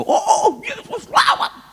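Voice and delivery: high, loud cry of prayer, half laughing; loud fervent prayer. Retold or imitated. Preacher retelling his own hospital prayer, loud high plea. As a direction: cry out to Jesus with a shaky laugh. Praying loudly with trembling hands.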